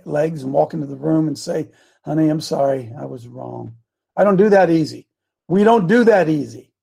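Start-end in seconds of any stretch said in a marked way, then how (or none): 2.0-3.8 low, trailing-off admission of being wrong; sheepish apology. Retold or imitated. Husband admitting to his wife he was wrong, sheepish. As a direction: retell it tail between the legs, voice sinking. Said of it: "put my tail between my legs".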